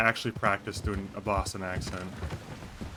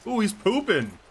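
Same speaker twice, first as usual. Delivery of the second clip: amused surprise; 10 semitones higher, 3 dB louder than usual. Real, not acted. Horse poops on stream.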